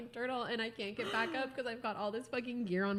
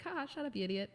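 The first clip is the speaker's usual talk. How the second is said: higher, laughing through a teasing insult; playful laughing jab; joking laugh; 7 semitones higher, faster than usual. Retold or imitated. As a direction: tease him with a laugh. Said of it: "And I'm like".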